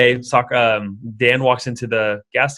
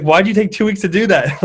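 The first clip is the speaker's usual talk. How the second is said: higher, louder puzzled mom; incredulous question; 8 semitones higher, 5 dB louder than usual. Retold or imitated. Mother baffled that Buddha needed two weeks, raised and louder. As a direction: ask it like the answer was too simple. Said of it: "And she's like".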